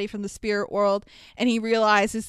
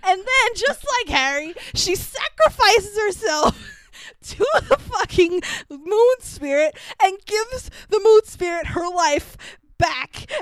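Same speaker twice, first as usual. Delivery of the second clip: laughing while telling; 7 semitones higher than usual. Real, not acted. Emotional retelling of Yue's death.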